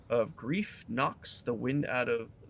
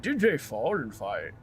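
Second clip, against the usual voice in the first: posh governor; 5 semitones higher than usual. Acted. Governor speaking in character.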